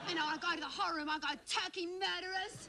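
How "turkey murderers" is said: high, drawn-out mock accusation; accusing cry. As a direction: call it out slowly and high, accusing everyone. Accusing relatives from another room.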